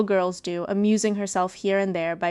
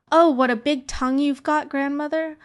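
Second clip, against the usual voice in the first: put-on child; 7 semitones higher, 4 dB louder than usual. Child questions disguised wolf.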